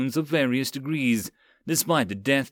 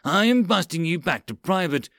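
raised, angry pronouncement; screamed threat; 5 semitones higher than usual. Acted. Lieutenant demoting sergeant in front of men, angry. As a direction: pull rank in anger. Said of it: "continued to scream at Mills".

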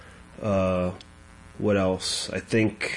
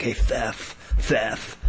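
mock schoolyard taunt with lisped "Theth"; kids taunting; much slower than usual. Kids teasing a boy named Seth, mild lisping taunt. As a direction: lightly jeer the lisped name "Theth". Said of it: "the other kids abuse him".

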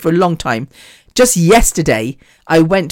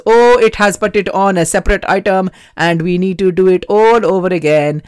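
manager imitation. Manager explains the bill to a customer, put-on imitated voice. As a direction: imitate the manager's way of talking, voice changed throughout. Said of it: "he was talking like that".

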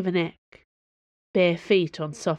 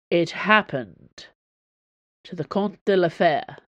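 snarling. Acted. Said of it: "Athos snarled".

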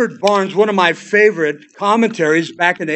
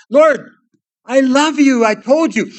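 higher and louder, an exasperated protest; Peter gets angry; 6 semitones higher, 5 dB louder than usual. Retold or imitated. Peter, stung by the third question, answers Jesus angrily. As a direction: snap back, hurt and fed up. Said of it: "Peter gets angry".

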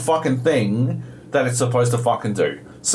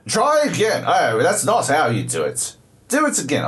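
mock British accent, pitched up on commands; super British robot; 4 semitones higher than usual. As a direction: order a retry like a British robot. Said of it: "I don't know why he's super British".

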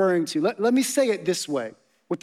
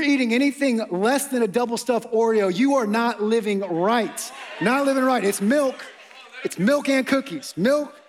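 playful shout; 3 semitones higher than usual. Real, not acted. Joking preacher rant about Oreos.

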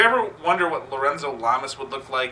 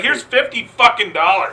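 mock yell; 7 semitones higher, 5 dB louder than usual. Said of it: "And he's like".

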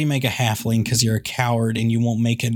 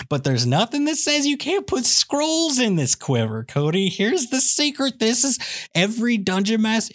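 conspiratorial secret; 9 semitones higher than usual. Real, not acted. Sharing a sneaky trick.

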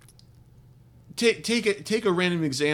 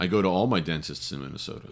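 put-on Minnesota accent; 9 semitones lower, 5 dB quieter, faster than usual. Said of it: "doing a Minnesota accent".

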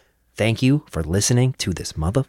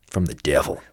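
ominous low voice; 7 semitones lower, 6 dB quieter than usual. Pretend. Mock ominous low line.

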